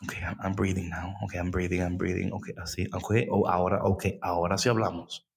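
low, soft, slowed-down self-calming; calm, breathing. Retold or imitated. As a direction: ease into stillness, breathing out. Retold prayer, breathing to calm.

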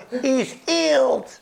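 put-on slow, drawn-out accented English; lightly voiced foreign healer, calmly; heavy accent. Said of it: "zei hij dan met, met zo'n, eh, dialect".

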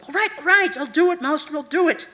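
high, loud, panicked surrender; cringing. A narrator's reading. Araneth gives in under the onslaught, cringing. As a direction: yield in haste to stop the pain. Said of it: "Araneth cringed under her onslaught".

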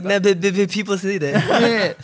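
mock stammer on the b, then a mushy slurred phrase; garbled self-mimicry. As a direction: trip over your own words on purpose. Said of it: "that didn't come out right".

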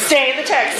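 put-on light Southern accent on stay in the text. Preacher mimics professor's advice in a mild Southern accent. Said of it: "in his best Southern accent".

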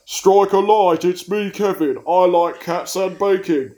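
a hint of a Cockney lilt; lightly voiced Cockney bloke; Cockney accent. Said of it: "a vaguely Cockney accent".

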